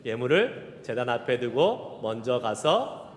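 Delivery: steady recitation, slowing on the last lines; scripture recitation. Shown as a demonstration. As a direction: recite the verse from memory, slowing at the end. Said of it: "앞에부터 다시 외워야 되는데". (차분하게 암송)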